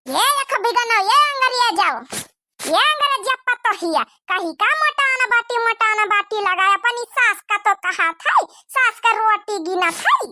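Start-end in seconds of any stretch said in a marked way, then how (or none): 0.1-9.1 mock angry yell. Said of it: "जोर में गुस्से में लाल लाल होई के बोला".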